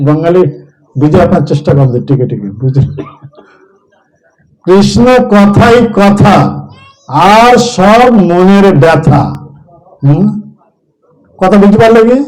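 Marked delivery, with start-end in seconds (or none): 4.7-9.2 slow proverb. Shown as a demonstration. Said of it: "ବଙ୍ଗାଳୀରେ ଗୋଟେ କଥା ଅଛି".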